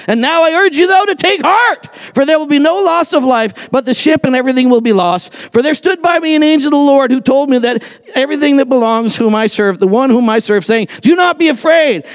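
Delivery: high-pitched, emphatic proclamation; acted rousing exhortation. Paul urging the men to take heart, rousing.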